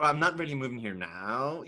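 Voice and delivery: lightly mimicked American twang; mock her slipping into American; teasing, slight American imitation; imitated American accent. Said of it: "that was all American".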